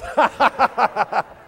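high, pulsing ha-ha-ha laugh; loud gleeful laugh. Real, not acted. Comic crowing after his April Fools punchline, gleeful laughter. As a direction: laugh big and high in a run of even bursts.

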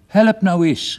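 high, exasperated call for a hand; calling for help. A narrator's reading. Father straining at the chimney, calling for help. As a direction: call out mid-struggle, pitched high. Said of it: "riep die".

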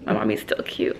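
hushed whisper to the camera. Real, not acted. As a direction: say it under your breath. Aside about mom to camera.

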